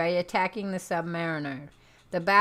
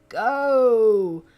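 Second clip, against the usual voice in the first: loud, high, drawn-out cry; heroic launch shout; 5 semitones higher, 9 dB louder, much slower than usual. Acted. Submariner launching himself into space, drawn-out shout. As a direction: bellow it long, like launching yourself.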